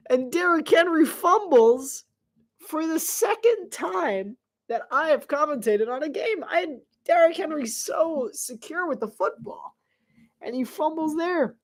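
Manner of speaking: high-pitched, incredulous commentary; stunned disbelief. Real, not acted. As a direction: lament the fumble in a high voice. Reacting in disbelief to fumble.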